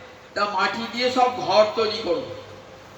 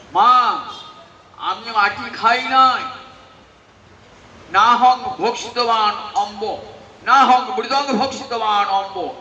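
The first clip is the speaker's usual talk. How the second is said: insistent denial; 5 dB louder, slower than usual. Acted. Child Gopal denies to mother.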